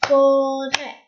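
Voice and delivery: forêt split evenly as fo-rêt; syllable by syllable. Shown as a demonstration. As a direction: tap out forêt in two held syllables. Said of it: "Tapez le mot".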